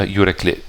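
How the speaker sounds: "Yürekli" ending on a short I. Shown as a demonstration. Repeating the name after a correction, short I in "Yürekli". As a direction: keep the final I of "Yürekli" brief. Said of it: "the I is short".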